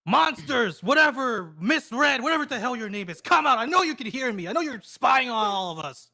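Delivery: mild in-character yell; yelling out challenge. Acted. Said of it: "he's gonna start yelling".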